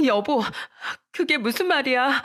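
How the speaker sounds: high, pleading as if about to cry; tearful pleading. A narrator's reading. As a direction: beg him not to leave, voice rising. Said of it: "울면서 매달렸어요".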